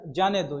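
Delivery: जाने दो as its own falling phrase; set apart after pause. Shown as a demonstration. Teacher finishes the let-him-go reading, जाने दो set apart and falling. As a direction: say जाने दो separately, closing with a fall. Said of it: "यहाँ पे ये लगा दिया".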